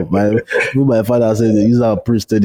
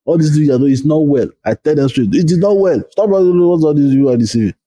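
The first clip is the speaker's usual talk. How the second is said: raised, insistent rebuke; retold scolding; 5 semitones higher than usual. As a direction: scold them like a preacher gone mad. Venting retold rebuke at believers.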